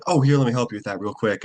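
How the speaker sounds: quick and offhand, just tossed away; casual. Shown as a demonstration. Actor in a real movie helping someone out, easy and casual. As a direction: say it like it's no big deal, fast. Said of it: "they say it so casually".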